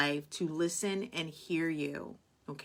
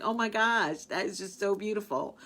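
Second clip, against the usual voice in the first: higher, louder gush of joy; gushing delight; 5 semitones higher, 3 dB louder than usual. Retold or imitated. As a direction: swoon over how beautiful it is. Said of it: "I'm just like".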